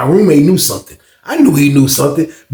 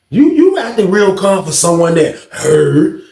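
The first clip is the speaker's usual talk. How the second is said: higher, drawn-out accusation; suspicious challenge; 5 semitones higher, slower than usual. Retold or imitated. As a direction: challenge the roommate's calm. Challenges too-calm roommate.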